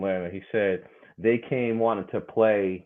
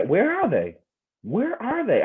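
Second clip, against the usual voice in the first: mock calling out; 11 semitones higher, slower than usual. Calling out for the haters.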